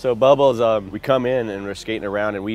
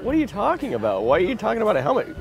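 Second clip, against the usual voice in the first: much higher, fast, baffled questioning; 12 semitones higher than usual. Retold or imitated. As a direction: fire off the questions in disbelief. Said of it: "And I'm like".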